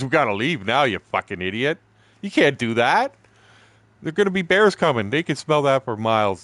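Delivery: panicked guide bawling out a rookie; retold yelling. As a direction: yell at him to pack up right now. Guide yelling about bears coming.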